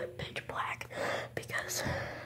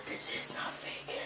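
slow whisper; 6 dB quieter, slower than usual. Real, not acted. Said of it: "I'm so scared".

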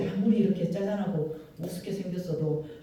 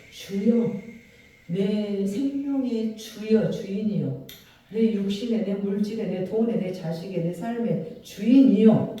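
earnest prayer; slower than usual. Acted. Preacher models a heartfelt prayer, drawn out and rising. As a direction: cry out to God as master of your life. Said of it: "그래서 우리가 기도할 때".

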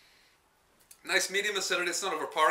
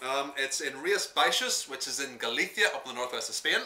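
put-on Spanish accent. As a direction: place names in a playful Spanish accent. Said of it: "That's my Spanish accent".

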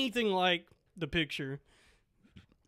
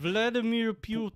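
higher put-on Russian accent; 5 semitones higher than usual. Shown as a demonstration. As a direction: warm up the mock Russian voice on a name. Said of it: "see if I can do a Russian voice".

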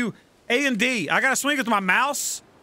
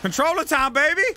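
excited cheer; 6 semitones higher than usual. Real, not acted. Excited switching to controller.

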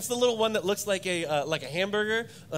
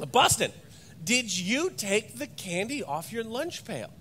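firmer repeated question; 3 semitones higher, slower than usual. Retold or imitated. Father repeats his question to his silent son, slower and firmer. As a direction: ask again, slow and pointed.

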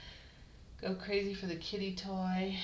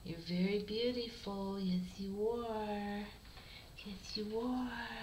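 slow tender cooing. Real, not acted.

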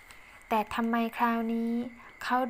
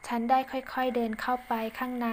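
ordinary delivery, nothing marked

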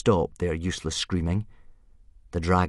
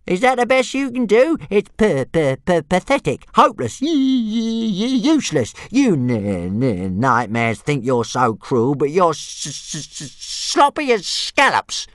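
high, stammering string of insults; taunting little dragon; 8 semitones higher, 3 dB louder than usual. A narrator's reading. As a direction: jeer in a squeaky, stuttering dragon voice.

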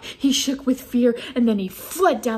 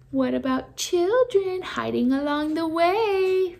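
growled; 8 semitones higher than usual. A narrator's reading. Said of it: "Vandal growled".

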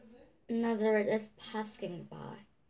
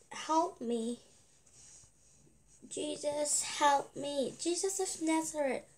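higher-pitched, repeated plea for help; mild shout; 6 semitones higher than usual. Acted. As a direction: keep calling out, moderately raised pitch. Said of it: "but he kept shout".

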